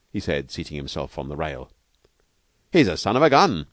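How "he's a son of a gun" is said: "He's a son of a gun" punched high and loud; emphatic. A narrator's reading. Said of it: "said Steve with emphasis".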